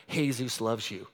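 half-laughing "Jesus loves you" said low and soft; laughing, quiet. Retold or imitated. Tries Spanish on stranger, laughing.

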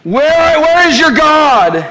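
high, loud taunting question; mocking enemy. Preacher voicing the enemy taunting the believer, high and loud. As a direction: sneer it like the enemy. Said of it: "He does this".

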